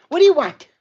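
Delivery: loud, high-pitched yell; exasperated shout. Real, not acted. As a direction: holler at the pestering dog. Calling out at the pestering dog.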